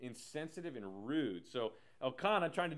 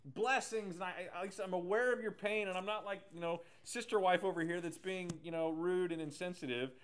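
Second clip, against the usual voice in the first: higher, lightly voiced clueless husband; well-meaning husband; 4 semitones higher, 3 dB louder than usual. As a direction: sweetly play the husband who means well. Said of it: "he's trying, like".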